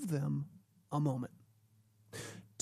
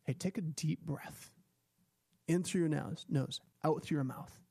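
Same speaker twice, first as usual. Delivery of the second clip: calm breathing coach. Shown as a demonstration. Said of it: "help them with their breathing".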